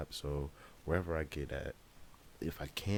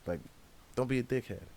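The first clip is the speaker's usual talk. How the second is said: high-pitched exasperated ranting at the guard; incredulous high mock rant; frustrated rant; 9 semitones higher than usual. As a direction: squeal out the outrage, pitched way up. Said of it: "And I'm like".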